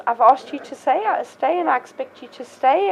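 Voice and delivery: matter-of-fact authority, firmly projected; calm authoritative command. Shown as a demonstration. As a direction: state it as settled, expecting obedience. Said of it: "matter-of-fact, calm, authoritative attitude".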